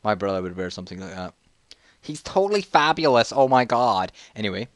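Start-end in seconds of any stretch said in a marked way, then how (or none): 2.0-4.1 camp, exaggerated admiration; mock gushing. Camp gushing about brother's look.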